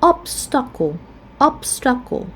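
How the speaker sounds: obstacle stressed on OB; stress on first syllable. Shown as a demonstration. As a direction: say obstacle as OB-stacle, middle vowel a schwa. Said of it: "the first syllable will be stressed".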